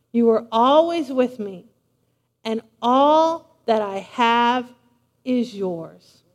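slow, low and loving; tender reassurance. Acted. Father reassuring his jealous older son, tender. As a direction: settle him gently, word by word.

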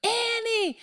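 high-pitched mock holler, held back in volume; retold scream, high and drawn out; imitated screaming. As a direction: call out for a lost child without real volume. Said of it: "I mean, I'm screaming".

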